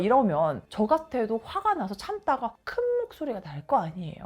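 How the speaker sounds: normal talking voice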